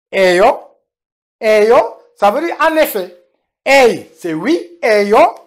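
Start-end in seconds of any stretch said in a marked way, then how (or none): 4.8-5.4 Eyo with a long, stressed final O. Shown as a demonstration. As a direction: lean on the O to mean indeed. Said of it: "une emphase avec le O pour dire en effet".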